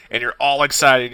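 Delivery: normal talking voice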